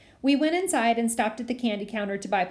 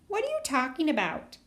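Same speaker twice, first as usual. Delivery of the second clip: higher teasing copy of his words; mocking mimicry; 5 semitones higher than usual. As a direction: parrot him back to tease. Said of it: "Alex mimicked".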